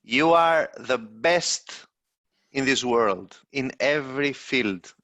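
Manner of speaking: slow, lifted, gushing compliment; lavish mock praise, stretched out for effect; over-exaggerated praise. Co-host demonstrates English hype by praising Doron, over-exaggerated. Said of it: "over exaggerated".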